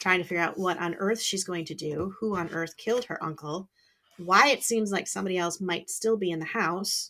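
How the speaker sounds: plain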